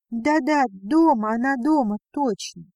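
торопливо и громче, сбиваясь; выпалить в растерянности; сбивчиво, взволнованно. Acted. Сбивчивый ответ в панике. (мать взволнованно отвечает Вавилову, громче и сбивчиво)

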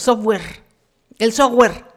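English word in a thick Mexican accent; loud, Mexican-accented "software"; strong Mexican accent. Shown as a demonstration. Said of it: "nuestro acento es así ... acento fuerte".

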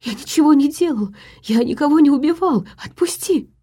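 high, panicked pleading; a suspect begging his tormentor for mercy; terrified begging. A narrator's reading.

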